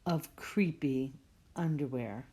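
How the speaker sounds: whispered, soft and low; spooky whisper. Acted. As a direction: breathe the last words like a ghost story.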